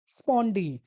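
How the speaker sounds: स्पॉन्डी with weight on स्पॉन and on the final डी; stress on both syllables. Shown as a demonstration. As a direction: press evenly on both halves of स्पॉन्डी. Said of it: "जोर दे के बोलते हैं". (दोनों अक्षरों पर ज़ोर)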